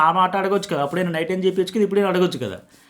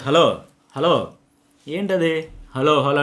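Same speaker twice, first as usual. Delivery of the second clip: imitating a curt, disrespectful "hello"; mock rude call-out, slowly drawn; మర్యాద లేని పిలుపు; much slower than usual. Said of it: "హలో ఇట్లా మాట్లాడితే". (అమర్యాదగా, సాగదీస్తూ పిలుస్తున్నట్టు అనుకరణ)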